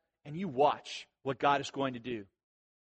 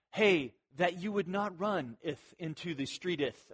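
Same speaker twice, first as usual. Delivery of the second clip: put-on softer, ineffectually polite old-scripture phrasing; mock-poetic warning; 6 dB quieter than usual. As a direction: deliver an urgent warning far too formally. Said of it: "that's not the way you tell".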